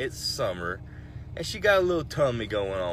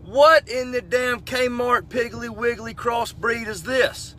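high, loud and slow in disbelief; incredulous outburst; 10 semitones higher, 6 dB louder, slower than usual. Retold or imitated. The storyteller gawks at a woman's fishing-lure piercing in high, slow outrage. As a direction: stretch out the outrage.

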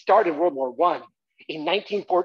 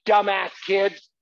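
slow mock insult; 4 dB louder, slower than usual. Shown as a demonstration. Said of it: "I want you to say".

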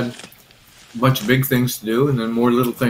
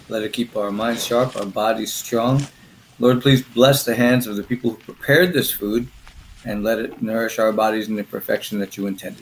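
prayer; 2 semitones lower than usual. Real, not acted. Says grace before meal.

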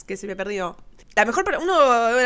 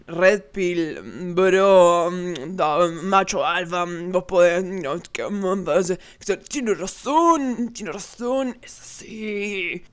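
low, mumbling macho-bro parody; hammed-up red-pill guy, halting and low; mock red-pill bro; 6 semitones lower, much slower than usual. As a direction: mumble like a dim alpha male, dragging the endings. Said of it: "Obviamente no faltaron los".

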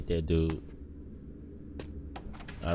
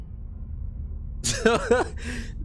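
wheezy laugh; 8 semitones higher, 5 dB quieter than usual. Real, not acted. Laughing at his own panic.

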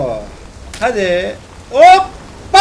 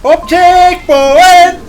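long drawn-out triumphant yell, much louder and higher; triumphant cry; 8 semitones higher, 11 dB louder, much slower than usual. Real, not acted. Gamer cheering as he reaches the checkpoint, drawn-out yell. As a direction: stretch out the word checkpoint in triumph.

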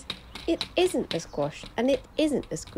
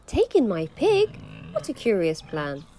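put-on puzzled old lady; 5 dB louder than usual.

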